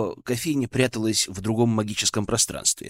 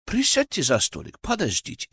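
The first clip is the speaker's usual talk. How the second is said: polite; 5 semitones higher than usual. Acted. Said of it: "вежливо предложил Набиль".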